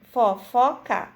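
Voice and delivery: Fofoca with each syllable marked apart. Shown as a demonstration. Teacher to children, sounding out each syllable. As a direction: spell out Fofoca: fo, fo, ca, evenly. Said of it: "Percebam que fofoca, as duas sílabas".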